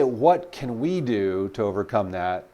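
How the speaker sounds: slow each word down as you ask; slow, deliberate question. Shown as a demonstration. Sales coach showing how to ask the client, slowly. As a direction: let the question land slowly and evenly. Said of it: "And when you say".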